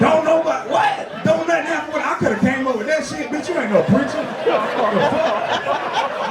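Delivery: scoffing, indignant rant; exasperated challenge to the preacher; mock anger. Churchgoer doubting the preacher, indignant mock anger. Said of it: "I'm mad".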